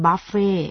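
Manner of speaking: buffet as "buff-fay", first vowel "uh"; correct reading. Shown as a demonstration. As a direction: say buffet with "buh", not "boo". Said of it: "อ่านว่า". (อ่าน buffet ว่า บัฟเฟ่)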